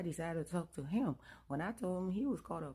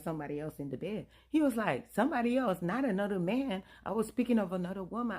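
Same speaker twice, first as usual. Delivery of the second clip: louder, heated protest; angry correction; 3 semitones higher, 5 dB louder, faster than usual. Retold or imitated. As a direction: set her straight, furious. Husband angrily corrects her.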